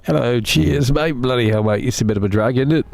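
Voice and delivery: mock a cheery British chatter in a put-on British accent. Streamer mocking his British viewers, in a mock British accent. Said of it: "why do you hate British people?".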